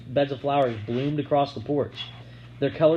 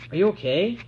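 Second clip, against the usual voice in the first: put-on worried girl voice; 8 semitones higher, 3 dB louder than usual. A narrator's reading. Narrator voices worried question.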